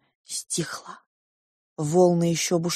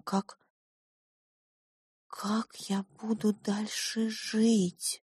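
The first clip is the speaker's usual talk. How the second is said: despairing; 4 semitones higher, 6 dB quieter, much slower than usual. Acted. Narrator despairs quietly.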